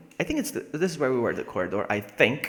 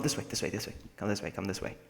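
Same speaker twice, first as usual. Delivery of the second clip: being chased; 3 semitones lower, 8 dB quieter, faster than usual. Real, not acted. Luring zombie, softer.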